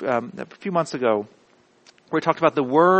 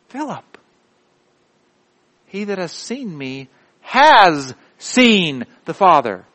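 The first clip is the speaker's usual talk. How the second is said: Jesus; 3 semitones higher, 5 dB louder, slower than usual. Acted. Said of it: "I can just see him going".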